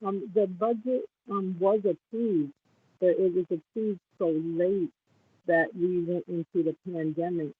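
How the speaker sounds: muffled, as if hand over mouth; words dulled and covered. Real, not acted. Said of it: "you're kind of mumble, muffled".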